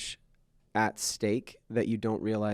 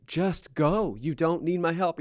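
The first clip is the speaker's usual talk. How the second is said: impatient dad; 7 semitones higher, 6 dB louder, slower than usual. Retold or imitated. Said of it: "And I'm like".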